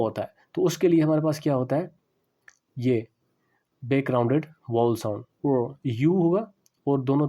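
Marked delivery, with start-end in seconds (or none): none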